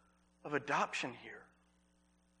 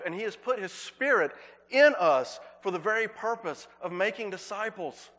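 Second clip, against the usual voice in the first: louder, driving sermon delivery; preaching at full force; 3 semitones higher, 4 dB louder than usual. Acted. Pastor proclaiming Christ to his church, full-force preaching. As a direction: lean in and preach it to the congregation. Pastor builds to a loud peak.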